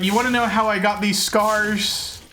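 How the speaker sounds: put-on light British accent on a villain line; British Joker. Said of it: "British Joker".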